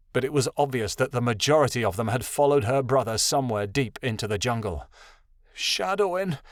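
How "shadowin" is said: higher, plaintive moan of a name. A narrator's reading. Jade waits anxiously for her lost brother, moaning his name. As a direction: moan the name forlornly, without shouting. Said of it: "Jade moaned".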